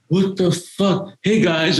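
high, slow disbelieving exclaim; sudden high-pitched amazement; stunned excited kid. Retold or imitated. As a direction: gasp it out like a starstruck teen. Kid seeing a rock singer in park.

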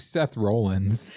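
"Rollins" drawn out with a long O, like "rolling"; mispronunciation teased. Retold or imitated. Co-host teasing the host, "Rollins" with a long O. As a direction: stretch "Rollins" into "ROLE-ins". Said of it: "You said Rollins".

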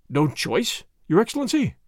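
raspy indignant protest; rasping voice. Acted. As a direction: rasp out an old man's protest. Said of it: "in a rasping voice".

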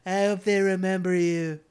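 loud, high dramatic trailer read; epic trailer line. Retold or imitated. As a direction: intone it like an epic movie promo. Quoting the trailer.

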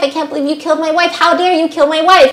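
high, loud, rushed panic as he shouts for his wife; a husband shrieking over his wife, high, loud and frantic; frantic screaming. Retold or imitated. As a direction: scream it out, fast and desperate. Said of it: "Gabriel's screaming".

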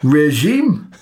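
slow Geordie with swooping pitch; Geordie accent. Acted. Co-host joking about the tricky word, Geordie accent. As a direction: stretch it out in put-on Geordie. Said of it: "in a Geordie accent".

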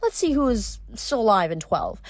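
smug, gloating villain; enjoy their dread; wicked sorceress. Acted. Pasiphae explains sacrifice.

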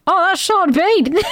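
high-pitched delighted realisation; re-enacted excited discovery; sudden recognition. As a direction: blurt it out as it dawns on you. Acting out her sudden recognition.

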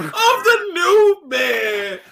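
loud, high, slow stretched shout; outraged shout. Real, not acted. Fan reacting to the first episode, slow loud outraged shout. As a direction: drag it out in disbelief.

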